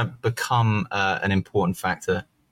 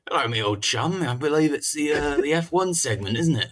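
posh voice; 5 semitones higher than usual. Retold or imitated. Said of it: "talking like posh people".

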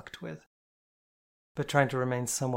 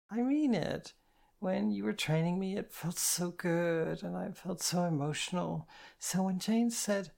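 put-on much higher, slowing, emotional girlish voice; earnest insistence; 7 semitones higher than usual. A narrator's reading. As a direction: plead to be understood. Drunk girl insists.

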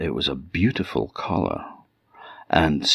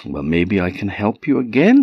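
cartoon princess; 4 semitones higher than usual. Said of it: "said the Mouse Princess".

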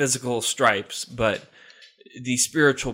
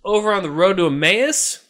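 loud, rushed report; jittery subdemon; 5 dB louder than usual. Acted. Subdemon reports the road to Emmaus, loud and jittery. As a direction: blurt the news nervously. Demon reports Jesus sighting.

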